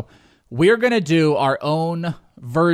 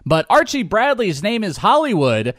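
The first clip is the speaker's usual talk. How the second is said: announcer voice; 6 semitones higher, 3 dB louder than usual. Pretend. Mock broadcast with announcing partner.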